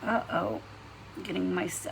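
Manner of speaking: talking while chewing gum; words round a wad of gum. Real, not acted. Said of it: "I can't talk and chew gum at the same time".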